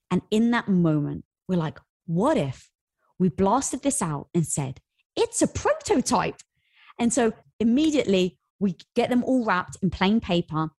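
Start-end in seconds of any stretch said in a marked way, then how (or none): 2.1-6.4 excited idea. Retold or imitated. Retold brainstorm, pitched sales line.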